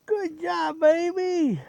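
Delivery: high, sing-song dog praise; squeaky praising a dog. Real, not acted.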